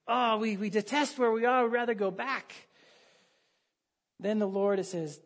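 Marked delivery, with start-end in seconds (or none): 0.1-2.5 mock grumbling. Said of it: "what are they doing?".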